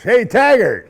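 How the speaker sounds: a loud, high shout across the course; calling out. Retold or imitated. Golfer calling out to him across the course, loud and high. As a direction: hail him from afar by his role name. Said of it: "I walk in a golf course".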